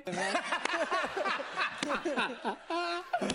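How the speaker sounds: high, soft run of laughter; helpless giggling, pitched high; long laugh. Real, not acted. Comic laughs after his bit.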